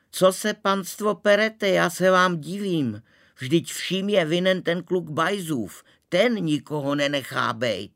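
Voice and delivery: very high, loud shrill-free scolding cry. A narrator's reading. Maharani scolding the brawling guests, very high and loud. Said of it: "pravila vysokým hlasem".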